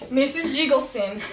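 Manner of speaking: name said through giggles; can't keep a straight face; giggly. Acted. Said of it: "Stop laughing".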